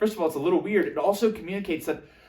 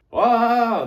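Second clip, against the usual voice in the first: high, loud, drawn-out exclamation; overwhelmed reaction; 8 semitones higher, 9 dB louder than usual. Acted. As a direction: act taken aback by too much at once. Imagined overwhelmed listener reacts.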